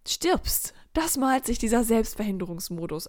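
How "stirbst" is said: dramatic whisper; spooky whispered aside. Acted. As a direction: hush it like a dark secret. Dramatic aside about imagined death.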